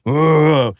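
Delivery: long drawn-out "uhhh" groan; slow, playful undead moan; mock zombie groan. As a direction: groan slowly like a movie zombie. Acting out a zombie apocalypse.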